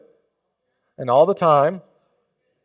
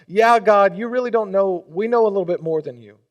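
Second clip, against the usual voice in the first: mock arrogance; 3 semitones higher than usual. Mocking voice of arrogant people.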